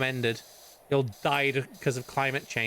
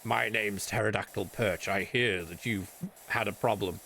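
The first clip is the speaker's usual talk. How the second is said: cowboy voice; 8 semitones lower, 5 dB quieter than usual. Pretend. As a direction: introduce yourself like a cowboy sheriff. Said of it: "Why he speaks like a cowboy".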